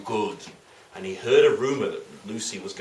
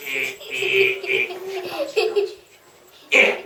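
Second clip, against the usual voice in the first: effortful mock gouging grunts; playful gruesome squelch-effort noises; much slower than usual. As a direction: act out thumbs pressing in. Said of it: "he got out his thumbs and he went".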